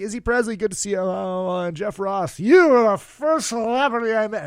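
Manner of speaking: high-pitched gushing introduction, played up; overeager fan. Introducing himself to celebrities backstage, hammed-up gushing. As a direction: gush like a mock starstruck fan.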